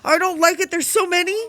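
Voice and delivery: hammed-up squeamish complaint; creeped out. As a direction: recoil in playful horror. Squirming at the eyes in dark.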